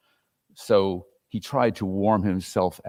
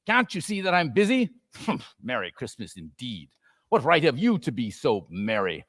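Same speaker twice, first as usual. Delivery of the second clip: testy Scrooge. Acted. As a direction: brush the boy off with contempt. Scrooge rebuffs nephew.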